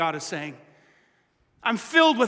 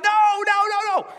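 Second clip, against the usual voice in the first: emphatic no; 9 semitones higher, faster than usual. Acted. God emphatically reassuring sinners.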